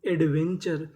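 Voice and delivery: एडवेंचर spelt out slowly; teacher sounding out एडवेंचर slowly; slow demo. Shown as a demonstration. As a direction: stretch each syllable of एडवेंचर. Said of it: "तो पूरी meaning एडवेंचर".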